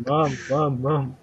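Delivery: a quick, light take on Stewie pestering his mother; Stewie imitation. Cohost quotes a cartoon baby nagging his mother, lightly mimicked. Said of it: "do the Stewie, um, to Lois thing from Family Guy".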